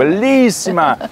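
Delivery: high, slow, drawn-out Italian praise; Italian admirer. Retold or imitated. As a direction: stretch it like a smitten Italian. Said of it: "Il a dit".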